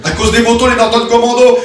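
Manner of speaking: Norton Commando répété plus fort; martèle Norton Commando comme une révélation; répété avec force. Acted. Preacher repeats answer with force. (répète « Norton Commando » plus fort, ébahi)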